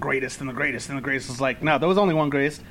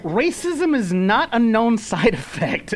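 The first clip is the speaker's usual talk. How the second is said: laughing through quote; 4 semitones higher than usual. Real, not acted.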